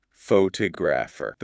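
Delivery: "photographer" stressed on "tog", with a small "pho"; stress on second syllable. Shown as a demonstration. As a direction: shrink the start of "photographer" and hit the second syllable. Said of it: "The stress moved to the second syllable".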